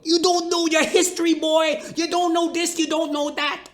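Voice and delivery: high, strained mock rant at a coworker; shrill-voiced scolding impression of the truck driver; angry truck driver. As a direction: squeal it out like a lecturing know-it-all. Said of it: "That guy goes off the handle".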